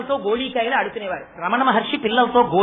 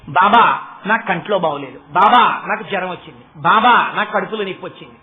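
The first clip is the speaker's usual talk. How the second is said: louder, lower pleading complaint to Baba; whining devotee; 6 semitones lower, 5 dB louder than usual. Retold or imitated. Devotee begging Baba to cure every little ailment, whining plea. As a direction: plead like a needy devotee listing aches.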